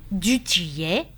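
mildly alarmed, rising question; a touch of terror on the repeated name; terror-struck echo. A narrator's reading. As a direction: echo the name in stunned disbelief. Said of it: "répéta Constance, frappée de terreur".

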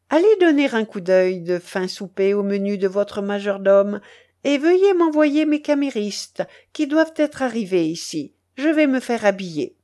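lightly voiced grand lady, politely commanding; a touch of haughty courtesy; imperious duchess giving orders. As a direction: dispatch him on errands as mistress of the house.

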